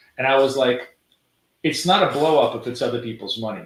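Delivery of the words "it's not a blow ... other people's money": mock biting, cutting, caustic sarcastic delivery. Retelling a reply to a spouse about someone's losses: retelling own sarcastic comment. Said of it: "very kind of a sarcastic, kind of a caustic comment".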